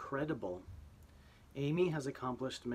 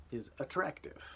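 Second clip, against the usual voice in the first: dictation read; 3 semitones higher than usual. Shown as a demonstration. Teacher dictating spelling words: clear and deliberate. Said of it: "here we go".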